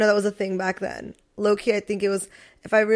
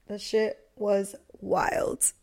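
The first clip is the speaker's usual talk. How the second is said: whisper; 8 dB quieter, much slower than usual. Real, not acted. Quiet afterthought ending the story.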